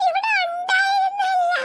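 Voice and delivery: high, slow crying whine; tearful child. Acted. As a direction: start to bawl like a lost kid. Child panics, grandma missing. (പേടിച്ചു കരയുന്ന കുട്ടി)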